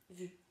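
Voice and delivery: Vu dit d'un seul coup net; syllabe frappée. Shown as a demonstration. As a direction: frappe Vu une fois. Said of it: "on le frappera une fois". (Vu frappé une fois)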